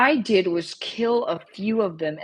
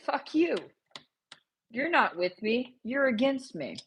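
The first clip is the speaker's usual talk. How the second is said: mock betrayed outburst; 5 semitones higher than usual. Rebels turning on the player, hammed-up angry outburst. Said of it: "they're like".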